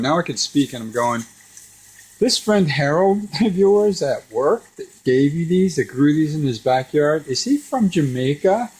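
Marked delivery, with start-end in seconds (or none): 2.2-8.7 high, agitated re-enacted interrogation; mock-alarmed grilling; agitated questioning. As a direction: demand an answer, pitched up. Re-enacts his alarmed questioning of mom.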